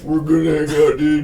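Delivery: a lighter second go at Tyler; lightly voiced Tyler; Tyler impersonation. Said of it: "our Tyler impersonation".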